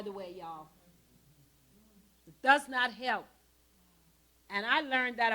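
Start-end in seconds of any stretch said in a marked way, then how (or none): 2.3-3.3 "does" hit louder and firmer; stress on does. Real, not acted. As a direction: lean hard on "does". Repeats point with emphasis.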